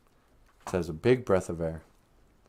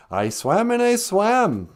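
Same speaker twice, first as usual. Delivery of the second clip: out of breath; 11 semitones higher, 5 dB louder, slower than usual. A narrator's reading. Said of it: "said the little mink".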